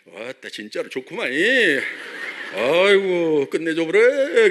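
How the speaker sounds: mock southern Korean dialect, gushing with feeling; mixed southern dialect. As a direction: play a delighted southerner in mixed Jeolla and Gyeongsang dialect. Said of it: "거기 막 전라도 말, 경상도 말 막, 막 섞여 있거든요".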